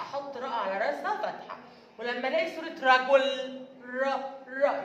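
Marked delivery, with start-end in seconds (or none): 3.8-4.8 long, held RA in "را"; fatha sound. Shown as a demonstration. Teacher showing kindergartners the fatha sound, "را" held long and open. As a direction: open the mouth and stretch "را" as a long "raa". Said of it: "يبقى الراء على راسها فتحة".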